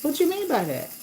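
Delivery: high, affronted demand; indignant challenge. Retold or imitated. Driver demanding the rider explain her remark, indignant. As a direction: question her sharply, pitch high then falling. Replaying anger at rude rider.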